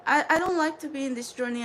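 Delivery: "I don't like to be in this journey" rattled off fast; rushed. Shown as a demonstration. Telling her Soul Tribe she dislikes this journey, fast. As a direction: hurry through "I don't like to be in this journey". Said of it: "I'm going to be speaking like this".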